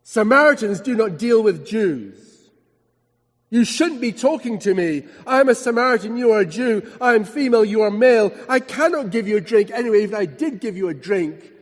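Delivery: mildly indignant Samaritan woman; angry indignation. Retold or imitated. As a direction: push back at him, a touch of acted outrage. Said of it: "flashing eyes and anger in her voice".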